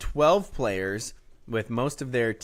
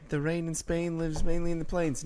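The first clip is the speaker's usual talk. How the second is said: put-on higher-pitched practice British accent; attempted British accent; 5 semitones higher than usual. Host warming up for the coach's update, badly faked British. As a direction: try out a half-hearted British lilt. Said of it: "read it in a British accent".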